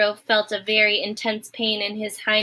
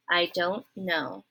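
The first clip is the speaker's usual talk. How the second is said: softer, lower and slow; quiet cowering; 4 semitones lower, 6 dB quieter, slower than usual. Acted. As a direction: shrink away as you say it. Midge repeats, bracing for a clout.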